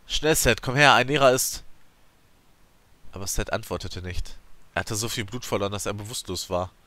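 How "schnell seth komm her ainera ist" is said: high, loud urgent yell. A narrator's reading. Narrator yelling at unconscious Seth for help. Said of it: "brüllte ich Seth an".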